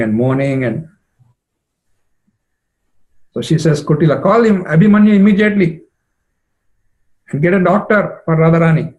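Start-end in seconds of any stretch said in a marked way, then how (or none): 3.8-8.9 high, loud, panicked orders; urgent command. Acted. Jatila orders Kutila to fetch a doctor, loud and urgent. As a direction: call out for help at once.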